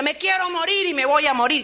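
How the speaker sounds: loud anguished wail of despair; despairing cry. Retold or imitated. Preacher voicing Elías crying out loud. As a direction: cry it out like a man at the end.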